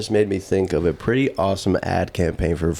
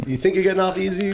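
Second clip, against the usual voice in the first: witch curse voice; 8 semitones higher than usual. Acted. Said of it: "cursing a rapper".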